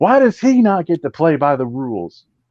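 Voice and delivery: put-on furious ranting, high and swooping. Retelling someone's outburst about the rules: imitating a ranting tirade. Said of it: "she just goes into a fucking tirade".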